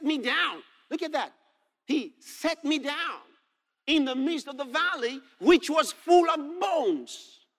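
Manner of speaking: high-pitched preacher, stretching the last phrase; dramatic preaching. Real, not acted. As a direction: preach the verse with rising wonder.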